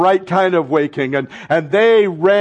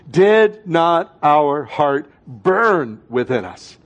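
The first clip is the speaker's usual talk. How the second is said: slow scripture reading; much slower than usual. Shown as a demonstration. Pastor leading congregation in scripture, slow and deliberate. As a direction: read it aloud slowly with the room. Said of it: "please read it with me".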